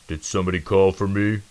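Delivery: lumbering friendly giant; goofy big mouse calling out; booming. Acted. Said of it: "the big mouse boomed".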